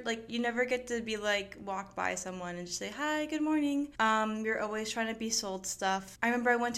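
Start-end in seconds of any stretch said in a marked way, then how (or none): 3.0-3.9 higher-pitched passing hello; lightly acted friendly greeting. Walking by someone and just saying hi, friendly greeting. Greeting a passer-by in a retold example.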